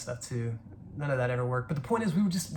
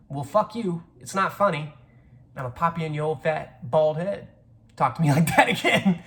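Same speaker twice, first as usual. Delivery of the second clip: mock angry comeback; 3 semitones higher, 6 dB louder than usual. Acted comeback to teasing relative.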